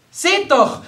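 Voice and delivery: high, loud excited exclamation; sudden loud call to look; sudden cry. A narrator's reading. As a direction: cry out all at once. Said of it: "schrie Fräulein Borg plötzlich".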